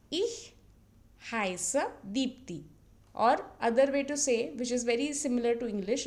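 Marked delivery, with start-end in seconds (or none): 0.1-2.6 Ich heiße said slowly, syllable by syllable; slow German model. Shown as a demonstration. Teacher modelling Ich heiße slowly for learners. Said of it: "then you can tell your name".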